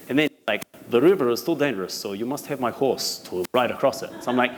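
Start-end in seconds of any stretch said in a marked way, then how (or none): 0.9-4.1 lightly put-on Russian accent; imitating a Russian-accented officer; mock Russian accent. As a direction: relay the warning in a Russian accent. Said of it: "I just learned the accent".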